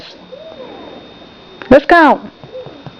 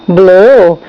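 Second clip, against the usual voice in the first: warm confirming echo; 7 semitones lower than usual. Shown as a demonstration. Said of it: "parent repeats answer".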